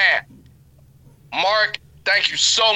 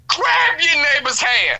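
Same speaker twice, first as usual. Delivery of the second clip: preacher shout; 2 semitones higher than usual. Retold or imitated. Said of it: "I said".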